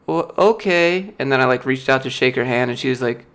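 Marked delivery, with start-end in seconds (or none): 0.1-1.1 high, slow, dragged-out okay; stunned HR lady. Retold or imitated. HR lady hearing he leaves today, slow and stunned. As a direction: let her stretch it out, lost for words.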